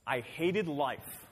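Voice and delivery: slow weighted quote. Acted. Reading verse of despair.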